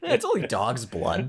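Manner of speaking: laughing through the words; amused repeat. Real, not acted. Speaker repeats a film's absurd line to co-host, laughing.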